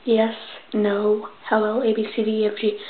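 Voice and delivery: testing speech with numb tongue. Real, not acted. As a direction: recite letters with numbed mouth. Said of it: "We'll have to test out".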